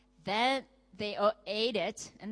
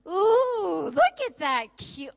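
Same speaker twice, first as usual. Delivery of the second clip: excited shopper; 8 semitones higher, 10 dB louder, much slower than usual. Acted. Acting a shopper seeing a dress.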